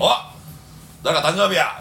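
put-on drunken shout. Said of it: "みたいな言い出して".

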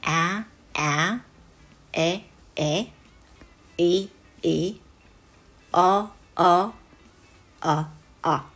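あ, え, い, あ, あ as English short a, e, i, o, u, each said twice; five short vowels. Shown as a demonstration. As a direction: model each vowel pair separately, from あ as in apple to あ as in umbrella. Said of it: "五つの母音をすべて言える".

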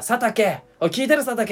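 mock radio shout. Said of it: "みたいな".

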